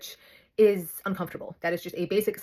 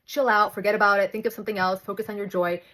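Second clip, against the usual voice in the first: mocking advice. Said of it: "the most annoying advice that you ever get is".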